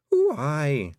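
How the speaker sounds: put-on high, Scots-accented old Pictsie matriarch; a tiny Scottish clan mother, proud and fond; old Kelder voice. The Kelder telling Tiffany about her sons, high and Scottish.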